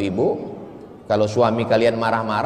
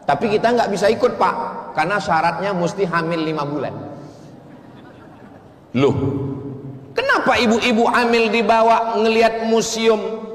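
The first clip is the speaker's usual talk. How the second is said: surprised participant; 9 semitones higher, faster than usual. Retold or imitated. Voicing tour participants.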